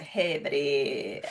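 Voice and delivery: low, slow drawn-out hey buddy; odd new voice. Shown as a demonstration. Repeating her own greeting in a low, slow new voice. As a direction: stretch out the hey in a voice you've never used. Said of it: "don't think I've ever made that voice before".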